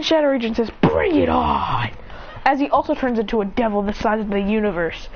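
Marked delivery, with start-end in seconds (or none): 0.8-1.9 slow, drawn-out taunt; menacing slow challenge; acted challenge. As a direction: stretch it out as a villain's dare. Shadow villain challenges hero.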